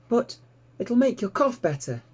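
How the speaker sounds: put-on high, bright young piglet voice, thrilled; piglet Babe, delighted. A narrator's reading. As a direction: squeal it out like an excited little pig. Babe coaxes Ma.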